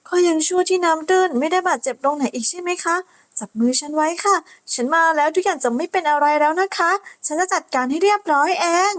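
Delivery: calm her down kindly; gentle reassuring knight. Acted. Knight reassuring the crying girl, gentle.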